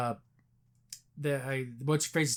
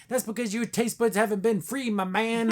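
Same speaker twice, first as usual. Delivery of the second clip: higher, hammed-up hype man; mock preachy; 6 semitones higher than usual. Boyd selling freedom to Chief, high and hammed-up. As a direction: sell freedom like a pushy buddy.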